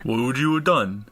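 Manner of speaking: puzzled bully insisting on his logic; a rich kid answering the stranger's riddle; confused tough kid. Acted. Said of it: "And he's like".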